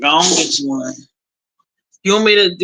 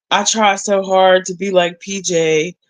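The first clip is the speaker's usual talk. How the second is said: normal talking voice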